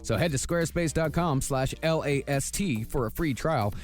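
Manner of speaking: bright podcast ad read over music. Acted. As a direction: sell it like a sponsor spot. Reads a sponsor ad.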